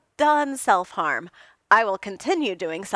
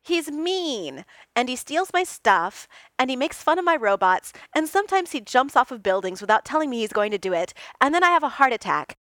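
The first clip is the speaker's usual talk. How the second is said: whiny rant; 5 semitones higher, 5 dB louder than usual. A narrator's reading. Tony whining list of complaints.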